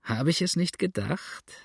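high, gleeful lilt without a real laugh; amused crowing. A narrator's reading. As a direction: crow as if tickled at being proved right. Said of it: "lachte Sander".

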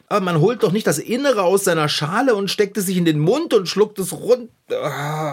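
rising into a near cry, then breaking off; worked-up panic. Acted. To the cat, upset about swallowing mussels, near tears. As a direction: get so upset the word chokes off. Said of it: "Beruhige dich".

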